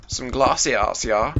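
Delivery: exaggerated German accent. Gamer playing with accents while making glass, German accent. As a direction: slip into a playful German accent. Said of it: "really German".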